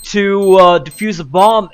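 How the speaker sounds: high, loud play-by-play burst; excited caster call. Acted. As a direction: call the frag with hype. Caster hype on frag.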